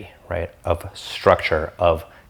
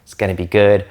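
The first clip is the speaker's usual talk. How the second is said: lightly voiced law-of-attraction type; a hint of dreamy wishful thinker; mock abundance believer; 2 semitones higher than usual. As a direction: gently imitate a carefree manifester. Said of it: "people that are kinda like".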